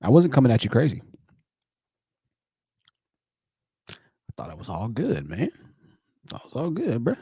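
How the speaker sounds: mildly hurt; hurt bro. Retold or imitated. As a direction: sound let down by a friend. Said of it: "It's like".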